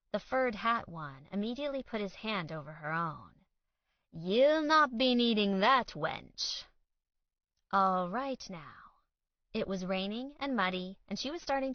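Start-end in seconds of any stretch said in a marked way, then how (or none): 4.1-6.6 louder, higher lightly hammed-up order; commanding mock knight. A narrator's reading. Fur-hatted man blocking her phone, mock command. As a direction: lay down the law in costume.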